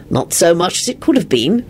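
even, composed reply; unruffled understatement; calm. Acted. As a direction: answer calmly. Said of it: "Lupin said calmly".

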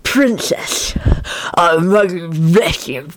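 very slow, garbled hag voice; incomprehensible hag mumble. A narrator's reading. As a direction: slur it into near nonsense like a hag. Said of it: "had to say was incomprehensible".

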